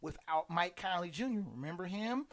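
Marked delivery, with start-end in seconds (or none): 1.5-2.3 soft whisper aside. Real, not acted. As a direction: lean in and whisper the question. Aside about forgotten player.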